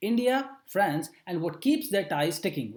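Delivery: slow phrase by phrase, "India, France and what keeps their ties sticking" with a pause after each chunk; read with breaks. Shown as a demonstration. Teacher shows students how to read a headline, slow chunked reading. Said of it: "So this is how we should read".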